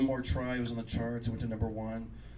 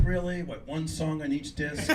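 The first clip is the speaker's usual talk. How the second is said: deadpan jab; 2 semitones higher, slower than usual. Retold or imitated. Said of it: "She's like".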